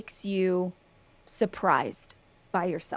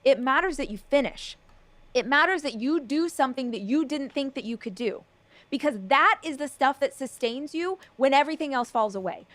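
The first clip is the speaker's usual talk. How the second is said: fired up pep talk; 4 semitones higher than usual. Real, not acted. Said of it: "Stop yelling".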